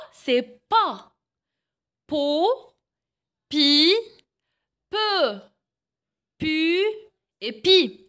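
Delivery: chaque syllabe en « j » détachée avec soin; syllabes articulées. Shown as a demonstration. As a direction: montre la syllabe, puis une pause. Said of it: "Avec pa". (syllabes en « j » dictées au professeur)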